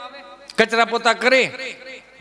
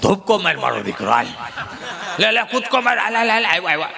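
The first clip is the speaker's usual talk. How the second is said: lightly voiced grandpa cheering the child on; old grandfather urging. Grandfather on the cot urging the boy to jump, lightly voiced.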